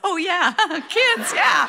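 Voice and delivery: an embarrassed afterthought through a laugh; sheepish realization. Retold or imitated. Dad yells from the car, laughing realization. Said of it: "my dad yells".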